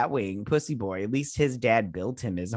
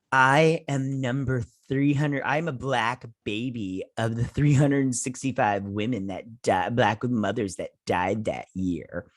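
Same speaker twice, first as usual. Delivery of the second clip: mock solemn speech; slower than usual. Mocking speech slowly.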